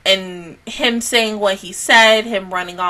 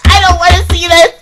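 higher, louder mock wail; imitating herself crying out; 9 semitones higher, 10 dB louder, faster than usual. Fan imitating herself seeing TikTok previews, wailing. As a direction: play up her own upset reaction. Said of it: "I'm just gonna be like".

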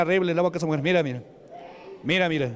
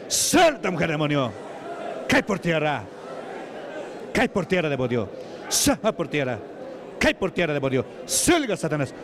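sharp opening word, pitch plunging after; exorcism command. Real, not acted. Preacher ordering a demon out of a woman, commanding.

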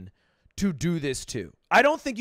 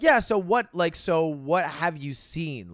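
mock douchey; slower than usual. The speaker imitating an arrogant creator, smug and slow. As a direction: sound insufferably entitled. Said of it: "the audacity to be like".

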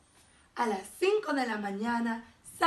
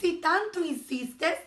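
slow, higher, sweetly obliging; sweet reply; 6 semitones higher, 3 dB louder, slower than usual. A narrator's reading. Sweet ladybug accepting the challenge, sweetly. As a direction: answer unhurried and sweet. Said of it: "respondió la dulce mariquita".

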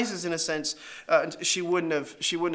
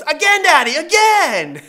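put-on higher, louder eager child; higher, louder thrilled girl shouting for another ride; excited little girl; 9 semitones higher, 12 dB louder than usual. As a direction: beg for more like a thrilled kid. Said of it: "she goes".

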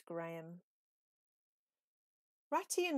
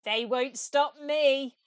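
chuckling Toad; 5 semitones higher, 11 dB louder, slower than usual. A narrator's reading. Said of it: "Toad chuckled".

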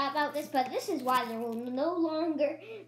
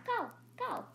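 pet's distant cry; 10 semitones higher, 4 dB quieter than usual. Acted. Pet answers from dark.

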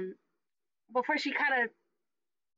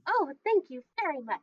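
perky booth attendant accepting a compliment; higher, cheery customer-service thanks; bubbly; 5 semitones higher than usual. Acted. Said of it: "kinda bubbly".

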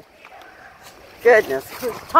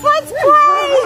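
voicing the dog; 11 semitones higher, 3 dB louder than usual. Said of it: "Tonka says".

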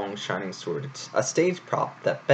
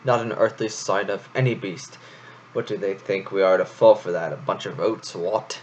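scoffing. Acted. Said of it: "Florian scoffed".

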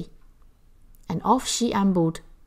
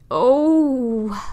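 overfull groan, higher and louder; 4 semitones higher, 4 dB louder than usual. A narrator's reading. Hetty too full of food, groaning. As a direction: groan from a stuffed belly. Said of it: "groaned Hetty".

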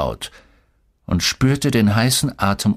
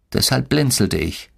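ordinary delivery

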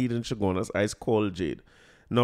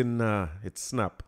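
slow and softer, grave "Nah, it snap"; serious verdict; 4 semitones lower, 5 dB quieter, much slower than usual. Retold or imitated. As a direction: deliver "Nah, it snap" like bad news, slowly. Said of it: "And serious mode".

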